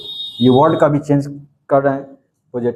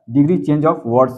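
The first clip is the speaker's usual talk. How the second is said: slow, deliberate dictation pace; teacher slowly dictating the lesson heading; much slower than usual. Shown as a demonstration. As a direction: say each word slowly for the notebook. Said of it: "teacher naming the topic".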